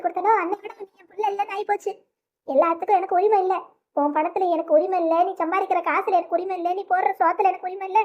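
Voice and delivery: crying lament. Acted. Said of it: "ஏம்மா அப்படி அழுதுட்டு இருக்க".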